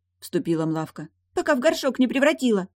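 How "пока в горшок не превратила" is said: high, loud, pert threat; threatening water spirit. Acted. Creature threatens the boy.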